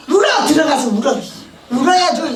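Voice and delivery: loud, sharp command to cry; scolding shout. Retold or imitated. Prayer house director ordering her to go cry, loud. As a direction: bark it like a stern director.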